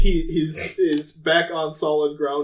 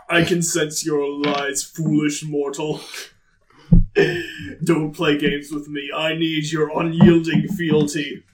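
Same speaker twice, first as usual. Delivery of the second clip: dark lord; 3 semitones lower than usual. Acted. God rebukes the party.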